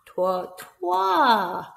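put-on breathy whispered cue for the kids; whispered counting. Shown as a demonstration. Nursery teacher whispering the count to children. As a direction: whisper trois, trois to prompt. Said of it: "I'm giving them a helping hand".

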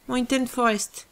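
light mock English accent on the name; barely-there English accent, tongue in cheek; self-mocking English accent. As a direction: read it in a jokey English accent. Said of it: "avec mon superbe accent anglais".

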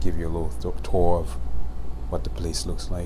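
hushed voice, pitched low; library whisper. Real, not acted. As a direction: whisper so you don't disturb anyone. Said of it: "I'm whispering because there are people actually studying".

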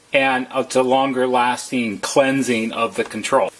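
ordinary talk

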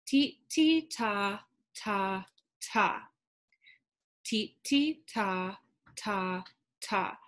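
ti and ta chanted as separate beats; rhythm syllables. Shown as a demonstration. Teacher chanting the third haiku line. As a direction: tap out each beat. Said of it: "another five syllables".

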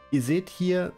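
ordinary delivery

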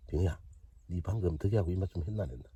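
asking the tiny smelt a cheeky question; mock questioning. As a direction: tease the fish like a nosy friend. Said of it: "얘한테 한번 물어봅시다".

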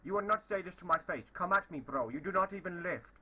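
mock-tough fake Indian accent; put-on Indian accent. Prankster challenging a stranger to fight, mock-tough Indian accent. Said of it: "I am from India".

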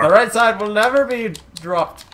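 Bane voice. Acted. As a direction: growl it like Bane. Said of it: "Why do you turn to Bane every time you talk?".

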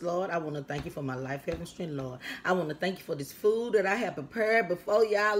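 a casual spoken grace over the meal; prayer. Real, not acted. Leads a prayer over food.

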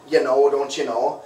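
slow, drawn-out Minnesotan "You know, don't you know?"; Minnesotan accent. Shown as a demonstration. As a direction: play up the Minnesotan accent, slowly. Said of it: "People say I have a Minnesotan accent".

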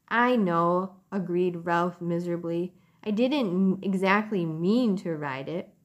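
gentle storybook narration; reading to children. A narrator's reading. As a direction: read it like a bedtime story. Reads a chapter aloud to children.

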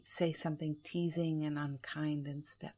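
ordinary delivery

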